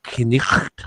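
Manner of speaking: knicht with a sounded k and a throaty ch: k-nicht; knicht, every letter sounded, ch as in Scottish loch; old English pronunciation. Shown as a demonstration. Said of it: "would be, like".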